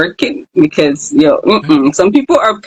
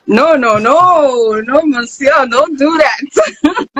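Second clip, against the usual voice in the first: no after no, climbing higher and ending slow on that; rising pleading no; 7 semitones higher, slower than usual. Real, not acted. Host begging the guest to keep his accent, rising higher and slower. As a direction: beg him not to, pitch climbing each time.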